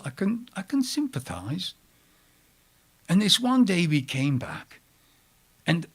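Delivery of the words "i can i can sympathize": unvoiced playful aside; whispering. Real, not acted. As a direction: breathe it as a joking confession.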